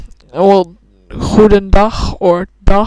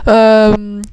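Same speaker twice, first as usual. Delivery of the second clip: Dutch accent. Real, not acted. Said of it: "I just said um in a very Dutch way".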